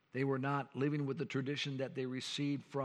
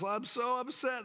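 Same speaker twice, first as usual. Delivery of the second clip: retold frustration; 8 semitones higher than usual. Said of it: "I got upset".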